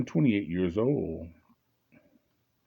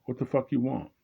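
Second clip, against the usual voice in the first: defiant; 5 semitones higher than usual. Retold or imitated. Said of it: "Now I'm defiant".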